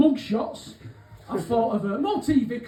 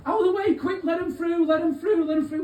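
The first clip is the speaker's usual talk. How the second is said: high, urgent calling to clear the way; urgent crowd call; 7 semitones higher than usual. Retold or imitated. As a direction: push through, calling ahead. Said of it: "someone says".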